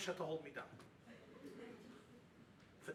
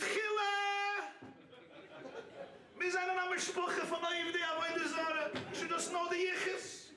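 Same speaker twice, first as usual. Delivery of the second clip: mock proud groom; 5 semitones higher than usual. Groom mockingly boasts at Sheva Brachas.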